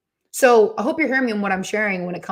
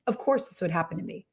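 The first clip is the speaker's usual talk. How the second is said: much softer, sulky mutter under the breath; muttered self-pity; 2 semitones lower, 8 dB quieter than usual. Retold or imitated. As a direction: grumble it to yourself, defeated. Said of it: "Anybody ever has said that to themselves? I have".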